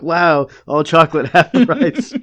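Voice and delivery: quoting Homer while cracking up; laughing through a quote. Retold or imitated. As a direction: say it half-laughing, the joke too funny to finish straight. Retelling Homer's joke, laughing.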